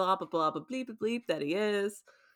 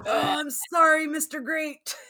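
much higher, timid apologizing voice; apologetic Steven; 10 semitones higher, 5 dB louder than usual. Retold or imitated. Host imitating Steven apologizing to Alexander, high and timid. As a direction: squeak out a polite sorry. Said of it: "He's like".

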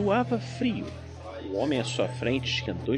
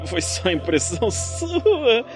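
nervous, slow denial; 10 semitones higher, 4 dB louder, much slower than usual. Acted. Nervous denial under threat.

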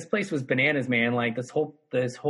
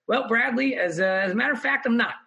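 mock-formal wit; 8 semitones higher than usual. Comedian teasing Brad Pitt, cheeky mock-formal. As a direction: play it mock-posh to get a laugh. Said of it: "I did it specifically for comedic effect".

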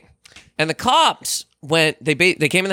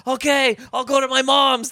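hammed-up meek surrender, higher; giving in; 6 semitones higher, slower than usual. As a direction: cave in too late, mock pleading. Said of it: "He goes".

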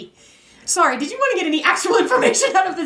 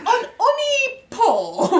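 put-on French accent; 8 semitones higher, slower than usual. French pronunciation of her name.

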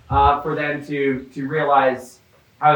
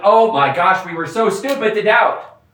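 mock relief; 4 semitones higher than usual. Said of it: "They're like".

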